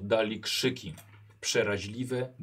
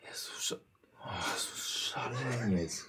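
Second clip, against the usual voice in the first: whisper; 6 dB quieter than usual. Acted. Heminger whispers in shock.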